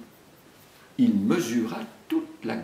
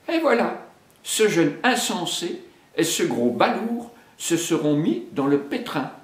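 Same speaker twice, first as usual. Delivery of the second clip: exasperated panther; 8 semitones higher than usual. Acted. Bagheera scoffs at Mowgli and Baloo, exasperated. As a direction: scoff at the fools. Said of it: "dit-elle".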